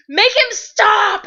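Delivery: high, drawn-out wail; Balth. Acted. Ghost Balthazar begging Gabe, wailing loudly. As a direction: shout a desperate plea. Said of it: "And Balth's like".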